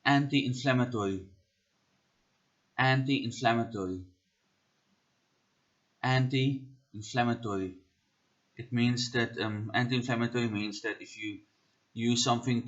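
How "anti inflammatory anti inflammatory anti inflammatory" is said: careful South African accent demo. Shown as a demonstration. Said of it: "We are doing this in a South African accent".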